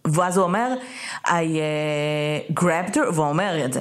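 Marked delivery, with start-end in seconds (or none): 1.3-3.1 lightly imitated halting delivery; imitating slow speech. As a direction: quote him haltingly, with a filler pause. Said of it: "כי הוא מדבר נורא לאט".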